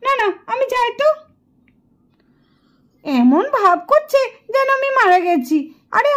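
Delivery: put-on puzzled, animated young wife; lightly voiced Nitu, baffled. Dead wife telling her weeping family she is here, baffled. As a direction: keep trying to get their attention.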